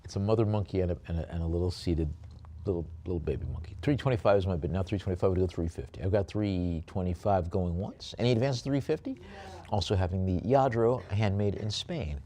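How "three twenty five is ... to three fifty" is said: brisk bid call; auctioneer calling bids. Acted. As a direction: keep the lot moving.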